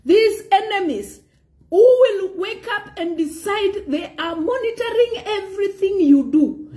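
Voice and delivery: high-pitched, insistent preacher's delivery; impassioned preaching. Real, not acted. Preacher warning the listener about enemies spreading rumours, impassioned preaching.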